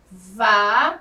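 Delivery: VALORES split slowly into va... lo... res, with pauses; sílaba por sílaba. Shown as a demonstration. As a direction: say "Valores" very slowly, one syllable at a time. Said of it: "vamos aprender a pronunciá-la bem devagar". (bem devagar, separando as sílabas de "Valores")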